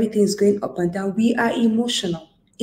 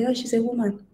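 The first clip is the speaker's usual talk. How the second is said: higher-pitched mock of a naysayer; mimicked dismissive remark; 5 semitones higher than usual. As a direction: imitate someone remarking on a woman, pitched up. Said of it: "Have you heard that before?".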